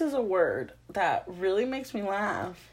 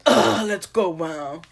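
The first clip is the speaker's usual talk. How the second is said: exasperated groan, then dropping off; grudging giving in; 3 dB louder, slower than usual. Acted. Woken friend agreeing to drive, grudging mock groan. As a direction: give in with a put-upon "ugh". Acts out reluctant sleeper giving in.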